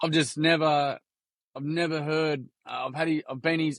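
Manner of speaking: halting retold teacher, broken off and restarting; stumbling. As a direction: imitate someone lost for words. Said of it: "and she's stumbling".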